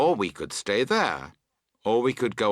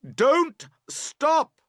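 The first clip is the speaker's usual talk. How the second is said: high, urgent yell; loud cry; 4 dB louder than usual. A narrator's reading. Boatman to girls towing, crying loudly. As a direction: cry it out across the water. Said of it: "you cry loudly".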